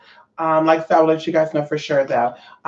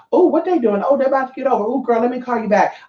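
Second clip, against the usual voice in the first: chatty, high phone gossip voice; gossiping on the phone while driving; distracted driver on phone; 5 semitones higher, faster than usual.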